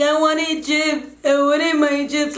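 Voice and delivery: high, drawn-out mock whine; hammed-up toddler complaint; toddler tantrum. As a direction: imitate a little kid wailing for a treat. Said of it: "it's a typical ass toddler tantrum".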